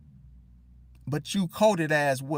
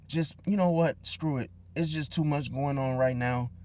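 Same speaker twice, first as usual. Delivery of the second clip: lower, much softer dejected voice; mopey bad day; 4 semitones lower, 3 dB quieter than usual. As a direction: sound like nothing's going right. Acted venting about a bad day.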